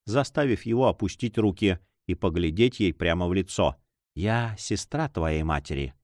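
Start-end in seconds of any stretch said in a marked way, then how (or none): 4.1-5.9 low, soft revelation; tender. A narrator's reading. Lady revealing she is his aunt, tender. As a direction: lower and soften the voice gently. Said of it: "нежно продолжала дама".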